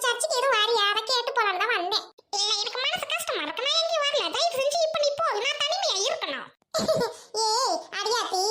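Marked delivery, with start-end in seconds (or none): 2.4-6.5 upset, high-pitched pleading; acted tearful plea to be left alone. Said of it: "அழுவாத, நிறுத்து". (அழுதபடி கெஞ்சல்)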